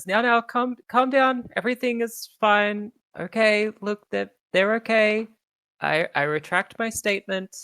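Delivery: high, pompous announcer hushing a crowd; announcer Sundancer. Acted. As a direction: settle the rowdy crowd with authority.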